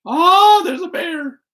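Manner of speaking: high, sudden mock alarm at the bear; startled gasp. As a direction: play the shock of spotting a bear. Reader gasps at the bear.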